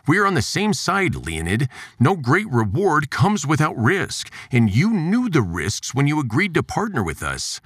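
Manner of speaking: Juergens voice. Acted. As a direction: lift the pitch for the pushy scientist.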